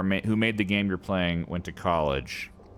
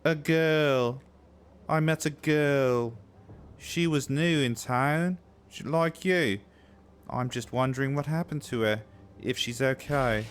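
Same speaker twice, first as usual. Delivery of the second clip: higher, slow, lightly voiced townsman; pitched-up NPC voice, slow and wistful; 7 semitones higher than usual. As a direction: play a worried stranger asking after a girl. Voicing an NPC's lines.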